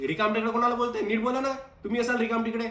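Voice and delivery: offended guest talking back; indignant. Acted. Guest bristles at being insulted.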